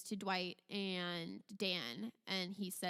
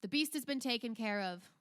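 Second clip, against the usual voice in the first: lightly voiced authoritative duke; a hint of ducal authority; Duke's announcement; 3 semitones higher, 4 dB louder than usual. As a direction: declare it to a watching crowd. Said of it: "the Duke ... and he says".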